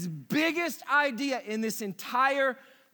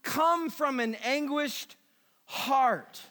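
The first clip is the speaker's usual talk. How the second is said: slow anguished lament; slower than usual. Retold or imitated. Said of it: "He said".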